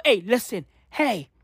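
usual speaking voice

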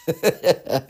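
short high giggle; laughing. Real, not acted. Podcaster amused by her own disclaimer, laughing. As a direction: giggle at your own careful wording.

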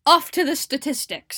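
loud, sing-song segment intro; announcer voice. Pretend. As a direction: announce it like a show host.

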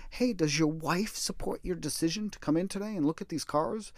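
used car salesperson. Retold or imitated. Used car seller probing a customer about the wife, mock sales pitch. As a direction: lightly mimic a car seller working a customer. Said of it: "used car salesperson would go through for".

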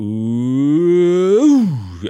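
long rising crowd ooh; imitated crowd "ooh". Host recalling the childhood match shout, imitated crowd "ooh". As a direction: swell it up like a stand of fans. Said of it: "that shout always sticks to my ear".

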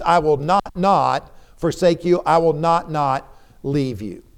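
"not, not" as two separate stressed beats; doubled emphasis. Shown as a demonstration. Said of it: "Literally, it reads".

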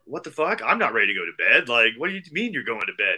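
retold indignant disbelief; incredulous protest. Protesting to friends who are going to bed, indignant. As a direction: protest loudly, as if let down.

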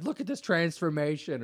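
high-pitched comic whine of blame; Sebastian Maniscalco. Retold or imitated. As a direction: whine it like a wronged driver. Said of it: "He's like".

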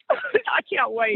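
slow, laughing "I can't wait"; laughing eagerly. Real, not acted. Cohost laughing with delight at the thought of her. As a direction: laugh through it, giddy with anticipation. Excited about Shirley Chisholm-type candidate.

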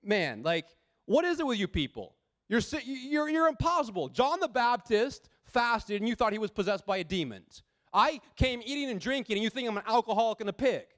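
acted exasperation, pitch climbing on the complaints; fed up, as if rolling your eyes; exasperated. Preacher voicing Jesus fed up with impossible people, exasperated. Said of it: "shaking his head and rolling his eyes".

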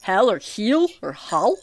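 Hel, Heel, Hull set apart, each with its own vowel; pronunciation options. Shown as a demonstration. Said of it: "How can you mispronounce Hel".

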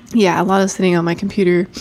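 stuffy nose, congested voice; blocked nose. Real, not acted. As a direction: talk through a blocked nose. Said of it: "Sorry, I'm stuffed up again".

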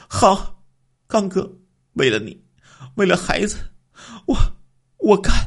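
high woman's voice, hesitant then resolved; the wife agrees to her husband's plan, hesitant then resolved; reluctant resolve. A narrator's reading.

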